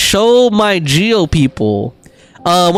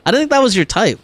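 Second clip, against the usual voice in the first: high, incredulous "really?" in disbelief; teasing surprise that a chatter likes Eula; surprised; 9 semitones higher than usual. Real, not acted. Streamer teasing Plague over liking Eula, surprised and higher.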